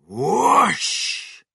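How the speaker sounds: loud, high-pitched whoosh; whoosh sound effect. A narrator's reading. Narrator shows the chicken taking off, loud exclaimed whoosh. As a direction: voice a big sudden whoosh.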